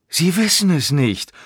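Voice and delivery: high mocking echo of "Sie wissen es nicht"; scornful, drawn-up taunt; sneering. A narrator's reading. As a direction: throw it back in derision. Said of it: "Stainsforth grinste höhnisch".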